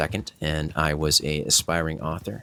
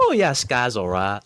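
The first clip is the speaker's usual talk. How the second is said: higher mock Liverpudlian accent; 7 semitones higher than usual. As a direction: tease in a Liverpudlian accent, pitched up. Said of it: "when did I become, uh, Liverpudlian?".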